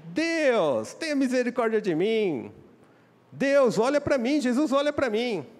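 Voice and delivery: high, loud crying-out plea to God; desperate plea. Acted. Desperate woman cries out to Jesus, high loud plea.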